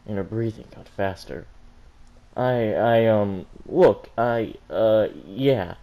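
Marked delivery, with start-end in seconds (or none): 2.4-5.8 flustered, louder stammer. Acted. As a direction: trip over the words, caught off guard. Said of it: "The Yang stammered".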